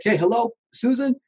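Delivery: high-pitched imitation of a caller on the phone; high mock caller. Contractor imitating a customer calling while he cleans gutters, high mock caller voice. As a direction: lightly mimic a customer calling in.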